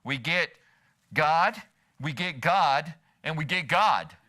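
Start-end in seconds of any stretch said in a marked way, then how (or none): 1.1-4.2 God punched each time, slowly; repeated, deliberate emphasis on God; stress on GOD. Shown as a demonstration. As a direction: land firmly on every God. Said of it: "we just emphasize different words".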